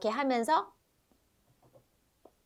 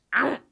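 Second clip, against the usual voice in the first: lip bite sound; 3 semitones higher than usual. Shown as a demonstration. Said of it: "이렇게 입술을 깨물 수 있어요".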